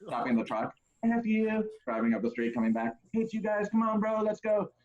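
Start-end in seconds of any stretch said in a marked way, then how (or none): 1.0-1.6 high mock drunk shout; mock drunk yell; drunk best man. Best man yelling from truck. 3.1-4.7 high mock drunk shout; mock drunk yell; drunk best man. Best man yelling from truck.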